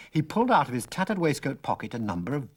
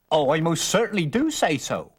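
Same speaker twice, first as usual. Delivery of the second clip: put-on higher, insistent old man; emphatic old stranger; 7 semitones higher, 4 dB louder than usual. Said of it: "said the man rather emphatically".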